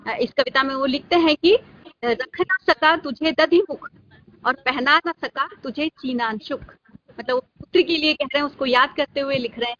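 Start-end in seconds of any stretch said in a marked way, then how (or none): 2.0-6.6 slow, measured verse reading; poem recitation. Acted. Teacher quotes father's lament to student, poem recitation. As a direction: recite the lines deliberately, with pauses.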